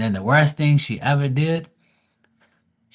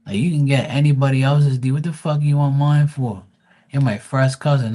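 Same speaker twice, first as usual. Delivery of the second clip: louder, higher, incredulous telling off; hammed-up disgusted cousin rant; mock scolding cousin; 3 semitones higher, 5 dB louder than usual. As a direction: shame her, half joking. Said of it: "I'm like".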